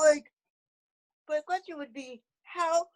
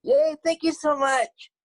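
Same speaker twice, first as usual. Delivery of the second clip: fangirling; 9 dB louder than usual. Real, not acted. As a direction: gush like a thrilled fan. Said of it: "I'm fangirling right now".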